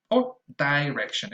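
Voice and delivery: direction with a die first syllable, a touch posh; direction, dye-rection; sophisticated long i. Shown as a demonstration. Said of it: "if you want to sound more sophisticated".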